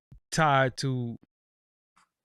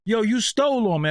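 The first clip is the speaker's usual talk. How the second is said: mock phrasing; 8 semitones higher than usual. Shown as a demonstration. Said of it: "I never said".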